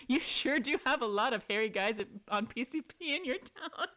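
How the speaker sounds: cheeky, sly line with a grin; playful sass, barely held laughter; sassy quip. Acted. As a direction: tease him with mock innocence. Reading the sassy option aloud.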